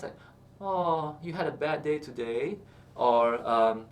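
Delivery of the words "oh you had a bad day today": sympathetic. Shown as a demonstration. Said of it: "being in sympathy with someone else".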